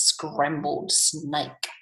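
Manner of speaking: slow, deliberate storybook delivery; drawn-out, matter-of-fact tease; teasing menace. Acted. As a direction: spell out the threat slowly. Mouse teasing snake with favourite food.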